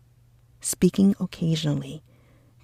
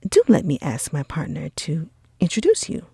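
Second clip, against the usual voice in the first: put-on enthusiastic young gentleman, coaxing; admiring Bingley, eager. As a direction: gush over her, then coax him. Bingley praising Jane, coaxing.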